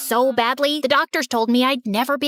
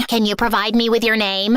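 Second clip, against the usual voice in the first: ordinary delivery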